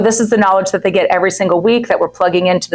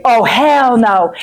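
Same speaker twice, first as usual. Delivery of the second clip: sassy refusal; 3 semitones higher, much slower than usual. Retold or imitated. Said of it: "She's like".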